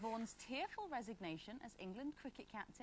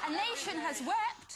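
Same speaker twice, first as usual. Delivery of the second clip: laughing; 10 semitones higher, 11 dB louder, much slower than usual. Real, not acted. Host jokes about nation weeping.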